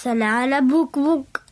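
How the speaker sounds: reversed sounds of "Cuckoo bananas"; backwards speech. Shown as a demonstration. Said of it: "try and say that backwards".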